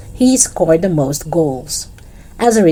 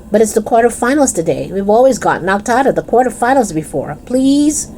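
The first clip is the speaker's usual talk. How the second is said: higher, pleading please; begging; 6 semitones higher than usual. Acted. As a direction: beg him to play. Darvesh begs Dennis to play.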